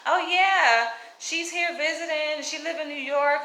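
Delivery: a hint of mom's polite voice; imitating mom. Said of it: "she was like".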